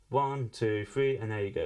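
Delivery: heavily compressed, loud voice; hard compression. Shown as a demonstration. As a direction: squash the voice with a compressor. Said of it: "You can hear the compressor coming in".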